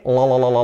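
LA repeated with the tongue tip up; isolated L sound. Shown as a demonstration. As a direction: drill the L as la-la-la.

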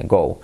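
"go" with a nearly undiphthongized o; almost pure O. Shown as a demonstration. Teacher showing what many people do, "go" with plain o. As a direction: cut the glide short in "go". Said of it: "casi una O directamente".

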